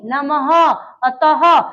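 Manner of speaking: "नमः", "अतः", each closed with a clear ह; visarga as h. Shown as a demonstration. Teacher repeats visarga examples, audible ह ending "नमः" and "अतः". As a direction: bring out ह at the ends of "नमः" and "अतः". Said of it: "तो ह आ रहा है".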